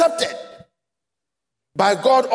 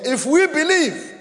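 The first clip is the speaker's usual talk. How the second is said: we lifted higher; stress on we; 3 semitones higher than usual. Shown as a demonstration. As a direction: push the word we out. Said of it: "Emphasis no one here".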